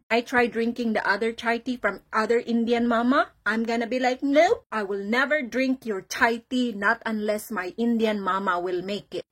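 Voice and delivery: lightly hammed-up Indian accent. Bragging to a friend about Indian mama's chai, playful Indian accent. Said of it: "started talking in an Indian accent".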